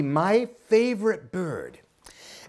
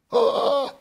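stammering fear; 6 semitones higher, 4 dB louder, much slower than usual. Acted.

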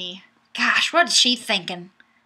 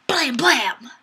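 breathy mock gun noises; whispered gunshots; 4 semitones higher than usual. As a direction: whisper the shots playfully. Voicing gunshot sounds from comment.

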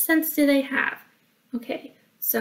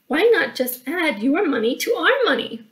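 higher, bouncy suggestion; eager blurting; 5 semitones higher than usual. Acted. Billy Bob proposing they share money, blurted out. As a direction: blurt the bright idea out. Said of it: "blurted out Billy Bob".

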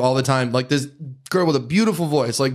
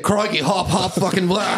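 higher, hammed-up Aussie caricature; mock Australian accent; 4 semitones higher, slower than usual. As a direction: throw out a joking Australian parody, breaking into a laugh. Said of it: "How the fuck am I supposed to say it".

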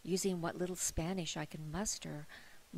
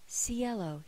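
a hint of reverence on "Cielo", falling gently; reverential; 4 semitones higher than usual. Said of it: "his tone reverential".

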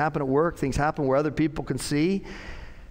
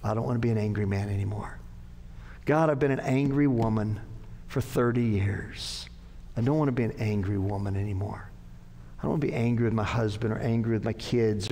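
sample prayer; 3 semitones lower than usual. Pretend.

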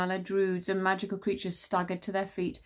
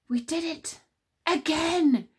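high, grinning cheer; gleeful; 9 semitones higher, 4 dB louder, slower than usual. Acted. Tsar to the queens, high grinning cheer. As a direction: crow it out with a grin. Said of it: "grinned Tsar".

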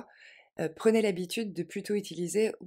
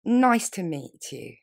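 slow, clear, louder model; slow model phrase; 6 dB louder, slower than usual. Shown as a demonstration. Teacher modelling a greeting slowly. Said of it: "vous pouvez dire".

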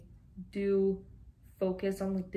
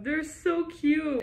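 gushing; 7 semitones higher, 3 dB louder, slower than usual. Real, not acted. Gushing over cute picture.

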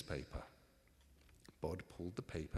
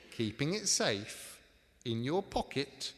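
higher, louder, disbelieving questions; incredulous echo; 6 semitones higher, 6 dB louder than usual. Acted. Ebenezer challenges Tom's excuse about the pocketed brooch, incredulous. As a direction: throw the excuse back at him, slowly at first.

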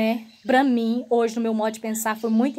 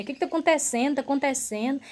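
slurred and groggy; 3 semitones higher, faster than usual. Retold or imitated. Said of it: "Mas eu tava falando tudo enrolado".

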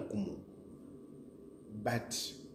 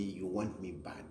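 You want me bad, dropped much softer; a softer, knowing repeat; quieter taunt; 4 semitones lower, 6 dB quieter than usual. Real, not acted. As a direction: let "bad" sink to a low hush. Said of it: "You really want me".

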